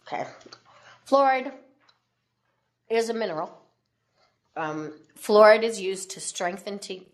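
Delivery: talking while chewing gum. Real, not acted. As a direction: speak around a piece of gum. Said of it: "I have to put a piece of gum in my mouth".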